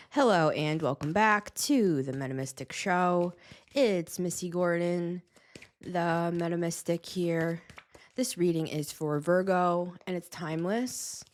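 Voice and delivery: slow, proper host greeting; show intro. Acted. Host finally greeting viewers, measured announcer read. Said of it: "It's like I can't even start my intro".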